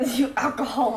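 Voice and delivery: laughing tease. Real, not acted.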